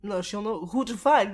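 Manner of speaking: ordinary talk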